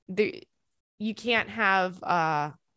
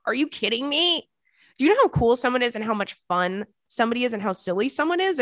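high and loud, rushing with disbelief; excited disbelief; 4 semitones higher, 3 dB louder than usual. Real, not acted. About the man who left a pig owner, high loud disbelief.

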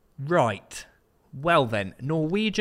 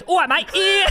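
attempted Welsh accent, much higher; a high sing-song try at Welsh; 3 dB louder than usual. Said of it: "He goes".

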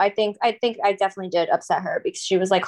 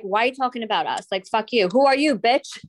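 mock heckle. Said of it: "Dren was like".

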